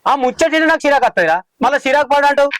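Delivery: exasperated and testy; irritated. Acted. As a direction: snap back at the nagging. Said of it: "నువ్వే గింత చిరాకు పడుతున్నావు".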